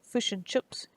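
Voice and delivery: attempted Kiwi accent. Shown as a demonstration. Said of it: "I'm not good at ac-, at the accent".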